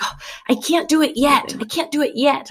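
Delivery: high-pitched imitation of a frustrated little kid; frustrated toddler. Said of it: "she was getting frustrated".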